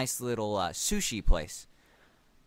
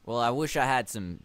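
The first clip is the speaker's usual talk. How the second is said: put-on accidental drift into a southern accent; lightly southern character voice. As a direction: let a southern twang creep in. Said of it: "now it's getting southern".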